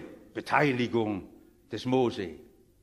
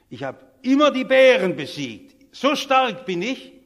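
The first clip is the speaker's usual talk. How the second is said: swelling louder into a proud brag; proud boast; 2 semitones higher, 6 dB louder than usual. Retold or imitated. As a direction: puff up like a boy bragging to the king. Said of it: "sagt der David ganz stolz".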